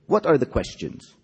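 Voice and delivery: high-pitched teacher's demand; insistent, pitched well up. A narrator's reading. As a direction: demand questions from a silent class. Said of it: "Miss Mantis demanded".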